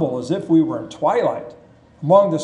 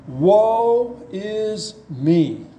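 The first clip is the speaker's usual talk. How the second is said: drawn out very slowly, without hope; a desperate lament, stretching every word; hopeless cry; 3 semitones higher, much slower than usual. Retold or imitated. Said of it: "I don't think he had any hope at that point".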